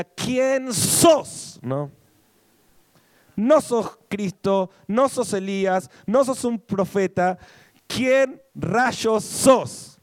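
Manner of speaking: mock Argentine voseo, high and loud; Argentine version. Preacher voicing the priests Argentine-style, high and loud. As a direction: play the baffled Argentine asking who he is. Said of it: "ahí me salió la versión argentina".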